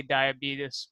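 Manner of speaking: diabetes said "die-a-BEE-tus"; Brimley-style pronunciation. Shown as a demonstration. Telling of seeking him out, diabetes as "die-a-BEE-tus". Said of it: "how to say diabetes".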